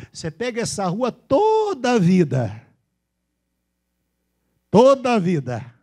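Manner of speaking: slow, loud mineiro with toda stretched out; exaggerated Minas Gerais directions; mineiro accent. Shown as a demonstration. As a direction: draw out toda like a Minas local. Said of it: "É o jeito dele falar".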